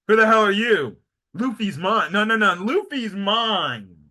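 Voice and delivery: playful squabble between rival admirers, punched out; mock jealous quarrel. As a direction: act out a mild catfight over a crush. Two rivals fighting over Luffy.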